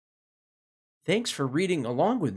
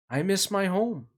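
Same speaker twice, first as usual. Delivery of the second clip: homesick rooster; 6 semitones higher than usual. Acted. Lonely rooster voiced in story.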